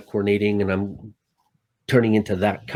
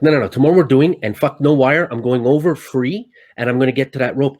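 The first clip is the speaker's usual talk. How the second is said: louder, determined refusal; defiant insistence; 3 semitones higher, 4 dB louder than usual. Retold or imitated. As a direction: insist loudly you'll do it anyway. Insisting to crew next day.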